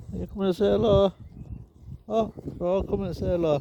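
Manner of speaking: high, quick dog-greeting voice; lifted, excited pet talk. Real, not acted. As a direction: coo a fast, high-pitched hello to the dogs. Greeting dogs coming over to her.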